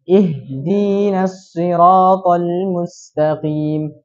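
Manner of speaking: "Ihdinas" dengan ya setelah dal, sangat lambat; tambah ya setelah dal. Shown as a demonstration. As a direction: eja pelan "Ihdinas siratal mustaqim". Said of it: "tambahkan ya setelah huruf dal". (contoh bacaan "Ihdinas" pelan dan jelas)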